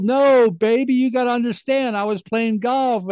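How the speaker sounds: high, mock-soothing husband; retold placating. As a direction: imitate him smoothing things over with his wife. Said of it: "It couldn't have been more the opposite".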